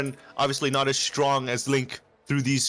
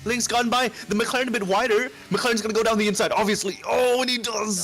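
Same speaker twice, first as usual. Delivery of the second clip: excited commentary; 5 semitones higher than usual. Real, not acted. Live overtake battle.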